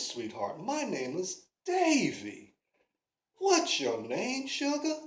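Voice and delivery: Davy chatting up the pretty lady, low and smooth; smooth-talking flirt. Acted. Davy smooth-talks a passing woman.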